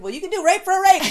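high, loud, fast sarcastic comeback; a sudden hammed-up snap; mocking retort.

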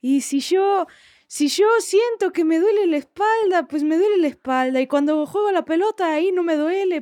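lightly played Argentine accent, complaining. Shown as a demonstration. Guest doing her Argentine friend on request, in his Argentine accent. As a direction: impersonate a grumbling Argentine friend. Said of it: "Haz el acento de un amigo".

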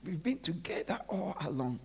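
hushed, breathy whisper of God; God whispering to Adam. Acted. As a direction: whisper it tenderly to a hiding friend.

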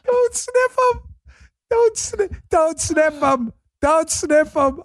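very high, squeaky quote through helpless laughter; imitating while laughing. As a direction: repeat the heckle, losing it completely. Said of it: "Stop laughing. I've been laughing".

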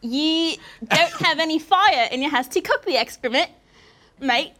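put-on Australian accent. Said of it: "a Australian".

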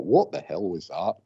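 put-on a touch of Scottish accent on a puzzled question; mild Scottish accent. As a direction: retell it the way the group said it, in a hint of Scottish. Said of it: "we said it with a Scottish accent".

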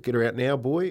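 trainer's call. Retold or imitated. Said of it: "'cause that's how they talk".

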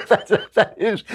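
laughing. Real, not acted.

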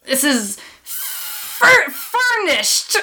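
a hint of a pirate; half-hearted high pirate try. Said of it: "I want it in a pirate voice".

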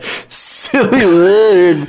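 slow, drawn-out mock echo; imitating a funny reading. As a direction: stretch each word out slowly. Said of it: "The way you said that".

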